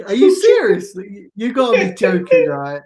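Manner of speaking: incredulous. Real, not acted. Chat names him posh.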